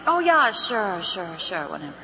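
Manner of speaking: indifferent brush-off, dropping away; dismissive. Acted. Acted brush-off of tired caller.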